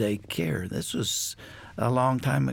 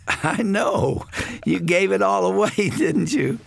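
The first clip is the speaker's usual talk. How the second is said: higher-pitched voice of a knowing mother; imitating mother; 8 semitones higher, 4 dB louder than usual. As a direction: retell mother's line, pitched up and lively. Mother's fond reply voiced in story.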